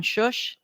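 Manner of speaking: finger-to-lips shush; rhythmic shushing. Shown as a demonstration. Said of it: "with a finger over my mouth going".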